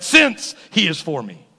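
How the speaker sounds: SINCE drawn out, then steady; stress on SINCE. Shown as a demonstration. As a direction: lean slowly on the word Since. Corrects if to since.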